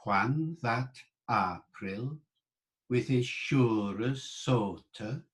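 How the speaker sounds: slow, measured reading of Chaucer; slow Middle English recital. Shown as a demonstration. Teacher reading the Prologue aloud for the class to join. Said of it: "I'll say it slowly".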